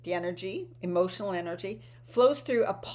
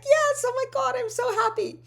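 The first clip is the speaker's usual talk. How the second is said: much higher and louder, bursting with joy; thrilled squeal; 7 dB louder than usual. Retold or imitated. Offered a surprise plane ticket, thrilled squeal. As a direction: squeal it like you just won a trip. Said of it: "I'd be so excited".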